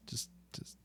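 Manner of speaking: breathy whispered prompt; whispering. Real, not acted. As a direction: whisper the cue off-mic. Prompting co-host quietly.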